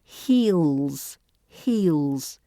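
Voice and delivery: "Heels" with a long drawn-out EE; stretched vowel. Shown as a demonstration. Teacher telling learners to stretch the sound, lengthened vowel. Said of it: "make sure you stretch that vowel sound".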